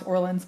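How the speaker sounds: "Orleans," the American way, like "OR-linz"; plain English "Orleans," with a sounded final n and s; American pronunciation. Shown as a demonstration. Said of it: "So I pronounce it Orleans".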